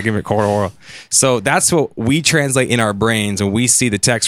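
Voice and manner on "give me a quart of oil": put-on quick, lightly done Southern accent. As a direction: toss it off with a hint of hick accent. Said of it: "a southern accent, like a hick accent".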